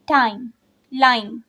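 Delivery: टाइम and लाइन each in one unbroken syllable; quick pronunciation. Shown as a demonstration. Teacher showing rhyming pair, टाइम and लाइन each said without a break. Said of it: "quickly pronounce कर रहे हैं".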